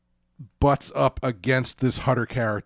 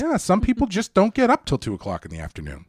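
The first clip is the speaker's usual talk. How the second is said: high-pitched mock nonchalance; oblivious excuse-maker; 8 semitones higher than usual. Hutter explaining away odd sleeping hours, mock-innocent high voice. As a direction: excuse it cheerfully in a raised, put-on voice.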